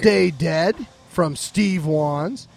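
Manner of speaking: measured announcer roll-call, each name set apart; sponsor read. Real, not acted. Host thanks film festival sponsors, announcer style.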